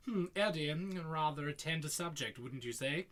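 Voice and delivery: lightly put-on theatrical villain; Frank-N-Furter. Film fan quoting a favourite pun, lightly theatrical. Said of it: "that pun that Frank-N-Furter says".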